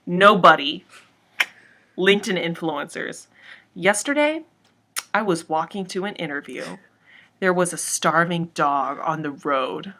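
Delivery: dramatic reading of a meme post; meme read aloud. Acted. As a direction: read it like an earnest inspirational post. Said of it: "So I'll read it out loud".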